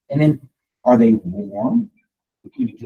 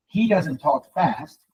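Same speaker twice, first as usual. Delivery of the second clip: slow and measured; much slower than usual. Shown as a demonstration. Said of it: "He's very measured in his communication".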